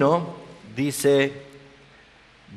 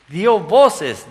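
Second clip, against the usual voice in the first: loud, high proclaiming cry; 6 semitones higher, 7 dB louder than usual. Acted. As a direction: lift it like a shout in the synagogue. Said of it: "De pronto comienza a gritar".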